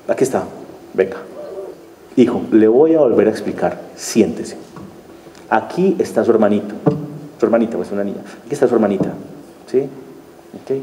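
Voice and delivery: put-on gently sit the child down and explain; calm explaining. Father calmly explaining to his son about the baby, soft and patient. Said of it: "explicar otra manera de hacerlo".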